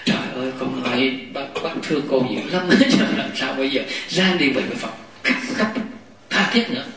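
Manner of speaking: lightly imitating a weepy well-wisher; mock tearful counsel. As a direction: plead with mild, put-on sorrow. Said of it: "cứ khai thị cái chuyện khóc". (giả giọng khuyên nhủ mếu máo, tha thiết)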